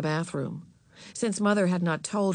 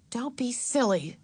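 higher, mildly impatient sisterly voice; 5 semitones higher than usual. A narrator's reading. Beezus dismissing her little sister, impatient. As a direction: brush it off with slight impatience. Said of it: "said Beezus impatiently".

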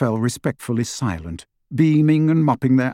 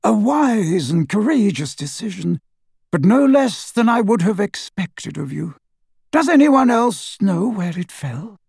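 high-pitched, measured headmaster; Dumbledore; 8 semitones higher than usual. A narrator's reading. Headmaster praising his pupil's decision, high-pitched. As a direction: lift the voice high, praising then questioning.

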